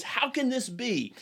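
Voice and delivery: storyteller voicing a general's fit of rage; retold rage. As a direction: protest like an indignant general, half-acted. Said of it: "the older general goes into a rage".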